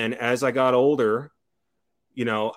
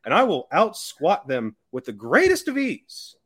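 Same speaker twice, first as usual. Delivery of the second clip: put-on old prospector; 7 semitones higher than usual. Mock old-timer boasting, continued.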